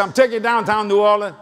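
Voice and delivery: lightly imitated Cajun accent; a hint of Cajun father talk; Cajun dad. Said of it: "My dad used to talk like this".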